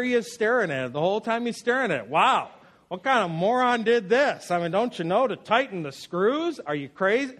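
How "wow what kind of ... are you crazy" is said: uncle scolding. Retold or imitated. Uncle scolding over botched repair.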